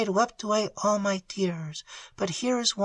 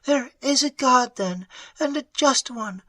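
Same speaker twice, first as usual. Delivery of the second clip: a lifted, jubilant voice; joyous rapture; 9 semitones higher, 4 dB quieter than usual. Acted. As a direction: celebrate the coming freedom. Prisoner rejoices at freedom.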